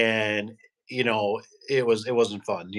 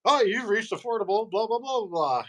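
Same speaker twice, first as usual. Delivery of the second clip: high mock recorded message; imitating his own answering machine; 9 semitones higher than usual. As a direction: rattle off a fake recording. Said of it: "I sounded just like an answer machine".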